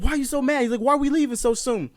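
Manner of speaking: high-pitched questioning voice; puzzled friend. Retold or imitated. Friend asking why they are leaving, puzzled.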